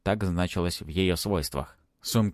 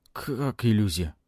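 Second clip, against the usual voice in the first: plain reading voice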